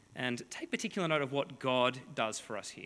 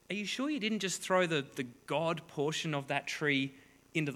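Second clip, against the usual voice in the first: mocking; 2 semitones higher than usual. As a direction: poke fun at the idol maker, scratching your head. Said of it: "Isaiah's here mocking them".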